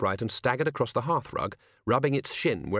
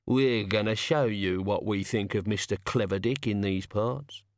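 menacing god. Acted. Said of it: "one of them said".

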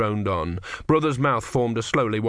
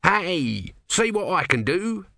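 brash boastful call; cocky show-off; 8 semitones higher, slower than usual. Retold or imitated. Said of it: "As far as I can remember, it was".

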